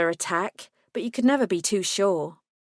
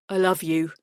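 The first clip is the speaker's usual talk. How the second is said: tender lover voice; 2 semitones lower than usual. Acted. Lucas, lower voice.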